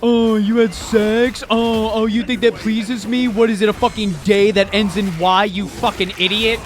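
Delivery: lightly done New York accent, scornful and mocking; Slaanesh, New York accent. Slaanesh mocks the player in a New York accent. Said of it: "Slaanesh with a New Yorker accent".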